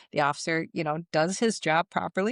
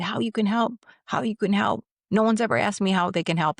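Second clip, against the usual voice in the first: mildly heated, higher-pitched echo of the question; retold spewing; 5 semitones higher than usual. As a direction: throw the question back, imitating an upset man. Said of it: "So he is spewing".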